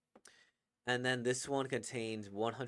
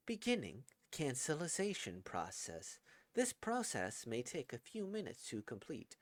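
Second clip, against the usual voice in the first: flat, stilted computer announcer voice; stilted robot voice; 5 dB quieter than usual. Acted. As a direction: read it like an old robotic system. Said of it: "a bit of a stilted voice like this one".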